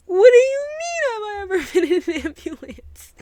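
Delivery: high, loud disbelieving retort; shocked, can't believe the question; incredulous. Retold or imitated.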